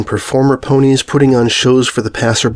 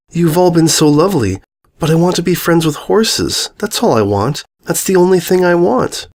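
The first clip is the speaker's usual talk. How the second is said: put-on a young girl's raised, earnest insisting; 6 semitones higher than usual. Mia telling the princess she wants horse friends, earnest. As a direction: plead your heart's one wish.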